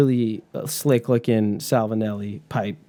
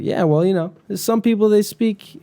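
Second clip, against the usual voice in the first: higher, put-on Southern accent; 8 semitones higher than usual. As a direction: attempt a Southern teacher's voice, pitched up. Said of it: "lessons in a Southern accent".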